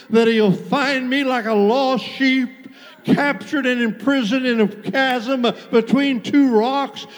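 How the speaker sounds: driving, urgent sermon delivery building in intensity; full-steam revival preacher; impassioned preaching. Real, not acted. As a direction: preach it hard, phrase after phrase without letting up. Preaches with rising force.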